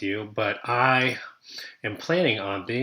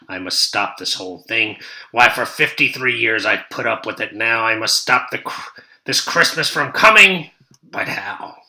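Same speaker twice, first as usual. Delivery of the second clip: scheming Grinch; 5 dB louder than usual. Acted. Teacher voicing the Grinch as he schemes, lightly sly. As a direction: plot it under your breath like a villain.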